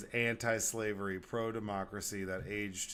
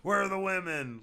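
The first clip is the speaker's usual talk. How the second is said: high, loud mock demand; mock drunk yell; 10 semitones higher, 6 dB louder than usual. Drunk defenders demanding women, high loud mock yell. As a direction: bellow it like a drunk lout. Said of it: "that's like".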